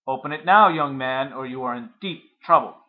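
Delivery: loud, threatening demand through the door; angry father. Acted. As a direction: bark it through the door at the boy. Father pounding on locked door.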